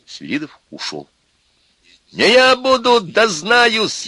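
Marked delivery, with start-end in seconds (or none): 2.1-4.1 very high, strained yell; loud, desperate high shout; breaking-voice shout. A narrator's reading. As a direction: cry it out at the top of your range. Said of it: "крикнул Костя срывающимся голосом".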